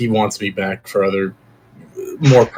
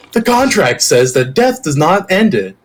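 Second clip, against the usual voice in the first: mimicking someone else, pitched up; a mock imitation, higher than usual; Tiedemann; 5 semitones higher than usual. Player mimics a character quoting the contract, higher-pitched imitation. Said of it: "He'll try to mimic Tiedemann too".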